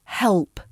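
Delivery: help with a dark L before the P. Shown as a demonstration. Teacher gives an example, help with a dark L. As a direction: pull the L in help to the back. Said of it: "the dark L".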